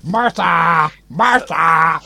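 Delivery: calling a name across the house. Acted. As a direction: shout for Marta from another room. Calling out to Marta.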